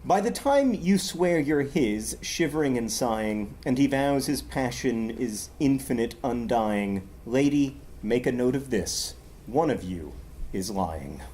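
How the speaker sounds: wry verse reading; poetry reading. Acted. Reads a poem aloud.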